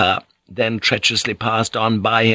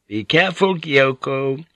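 higher, a mild warning to herself; self-admonishing; 4 semitones higher than usual. Acted. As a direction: caution yourself, half-amused. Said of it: "she admonished herself".

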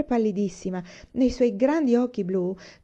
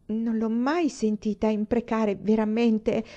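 stammering unease; 3 semitones higher, slower than usual. Acted. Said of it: "balbettò una a disagio".

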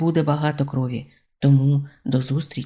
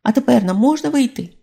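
higher, louder begging question; pleading; 9 semitones higher, 4 dB louder than usual. A narrator's reading. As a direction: beg to be let out. Robbers pleading to come out.

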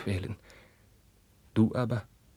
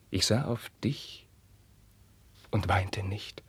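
whisper; 3 dB quieter, slower than usual. Acted. Carlos recalls the beating.

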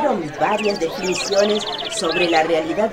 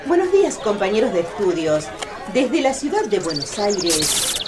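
field reporter. Acted. Reporter greeting the studio from Buenos Aires, bright. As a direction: open the broadcast like an eager reporter. Reporter opening live broadcast.

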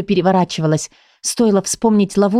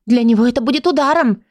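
higher, squeaky little voice; 5 semitones higher than usual. Acted. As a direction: squeak it out like a tiny book. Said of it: "пропищала книжка-малышка". (пропищать тоненьким голоском)

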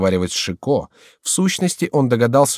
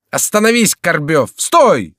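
high, loud command to halt; urgent shouted order with an oath; shouting; 8 semitones higher, 6 dB louder, slower than usual. A narrator's reading. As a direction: yell to stop a runaway. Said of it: "закричал ему Шико".

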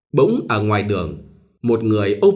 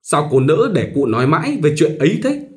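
higher, pushy matchmaker voice; meddling go-between; 5 semitones higher, 3 dB louder than usual. Acted. Go-between pressing a reluctant bride, lightly pushy. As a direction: coax her like a busybody go-between. Tài coaxing Minh to marry.

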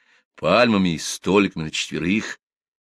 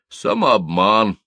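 unruffled; 4 dB louder, much slower than usual. Acted. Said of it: "невозмутимо ответил Птоломей".

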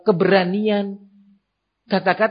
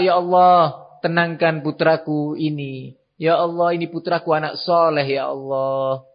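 pleading prayer. Acted. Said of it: "Mungkin dia dengan berdoa".

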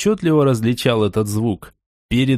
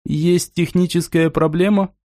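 put-on old speech synthesizer; 4 semitones higher than usual. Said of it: "Он задействовал синтезатор речи".

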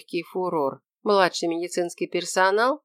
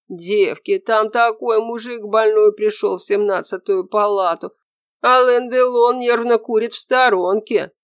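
loud, excited gossip; merry bass; 5 semitones higher, 6 dB louder than usual. A narrator's reading. Orderly tells the girls about the handsome visitor, merrily loud. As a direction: spread the juicy news at full voice. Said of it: "услышал её весёлый бас".

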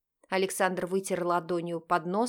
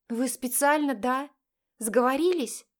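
higher, indignant "are you in on it"; indignant exclamation; 5 semitones higher, 3 dB louder than usual. A narrator's reading. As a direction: accuse them in mild outrage. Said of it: "с возмущением воскликнула". (возмущённое восклицание)

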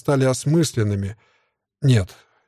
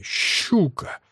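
high, breathy mock cackle; hissed snigger on a falling squeal; vile cackle; 6 semitones higher, 4 dB quieter than usual. A narrator's reading. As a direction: gloat with a nasty little laugh-noise. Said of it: "Опять гнусно ржёт".

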